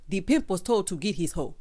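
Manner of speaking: lightly put-on Zamunda accent; mock Zamunda accent. Quoting a husband at the pool table, mock Zamunda accent. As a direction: imitate him with a hint of Zamunda accent. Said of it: "I do not know where this accent came from".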